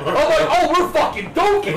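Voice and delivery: mock delight through laughter; laughing. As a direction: giggle it like you can't believe your luck. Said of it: "I'm like".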